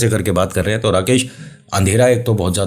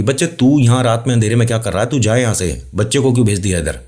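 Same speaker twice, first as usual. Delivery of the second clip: calling out fast; 4 semitones higher than usual. Acted. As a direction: call over quickly. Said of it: "तेजी तेजी से बोला".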